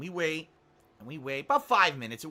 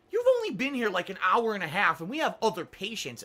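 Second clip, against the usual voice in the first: condescending nurse; 3 semitones higher, 3 dB louder than usual. Retold or imitated. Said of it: "she asks and you get angry".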